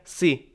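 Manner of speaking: "सी" said alone as the first piece; isolated syllable. Shown as a demonstration. Teacher counting out syllables, "सी" said separately. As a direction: set "सी" apart as its own sound. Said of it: "syllable word को ही लेंगे".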